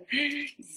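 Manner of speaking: put-on sharp intake of breath for a child; playful gasp. Parent praises child at the book, playful gasp. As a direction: gasp in mock surprise. Parent excited over turned page.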